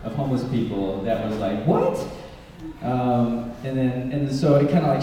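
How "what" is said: sudden squeaky high what; baffled what. Retold or imitated. Telling about odd encounters, a baffled squeaky what. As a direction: jump way up in disbelief. Baffled reaction to homeless stories.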